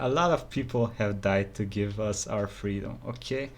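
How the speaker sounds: earnest, restrained objection; mildly annoyed. Real, not acted. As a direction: plead seriously, with a touch of annoyance. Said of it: "this annoys me a little bit".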